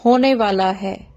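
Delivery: deliberate model sentence with pauses; demonstrated phrasing. Shown as a demonstration. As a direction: say it slowly for learners to copy. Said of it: "ऐसे बोलें". (ठहर-ठहरकर, सिखाते हुए)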